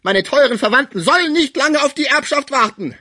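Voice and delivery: high, loud bitter sarcasm; deep irony. A narrator's reading. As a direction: sneer it bitterly. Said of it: "sagte er mit tiefer Ironie".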